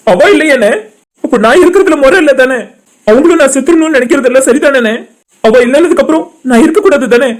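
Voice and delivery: crying as he questions his right to live; tearful despair. Acted. Grieving man pleads with his elder brother, crying in despair. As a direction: lament it through tears. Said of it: "அழாத மாப்ள".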